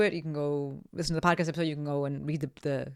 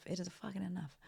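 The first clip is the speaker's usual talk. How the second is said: whispered under her breath, fed up; exasperated whisper; 15 dB quieter than usual. Real, not acted. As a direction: drop to a whisper to say she's done.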